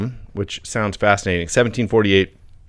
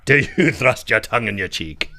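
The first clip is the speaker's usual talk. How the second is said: mock challenge broken by a laugh; laughing echo.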